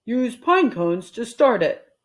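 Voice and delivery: slow, put-on husband voice; Mister Rogers voiced. Mister Rogers giving instructions, slow. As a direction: instruct slowly. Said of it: "said Mister Rogers".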